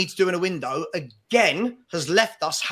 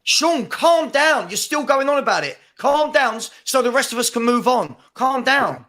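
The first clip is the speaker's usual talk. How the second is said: raised and stern, telling him to calm down; exasperated telling off; 4 semitones higher than usual. Real, not acted. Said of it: "How do you behave this way?".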